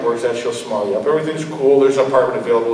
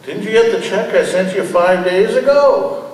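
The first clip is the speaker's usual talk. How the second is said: angry demand; 7 semitones higher, 3 dB louder than usual. Acted. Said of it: "not much calmer, blood still boiling".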